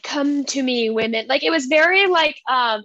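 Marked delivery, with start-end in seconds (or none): 0.0-1.3 lightly voiced luring witch call; mock Hocus Pocus witch. Friend retelling the cove scene, a light witchy lure. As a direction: coax them in like a storybook witch. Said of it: "it was very, like, Hocus Pocus".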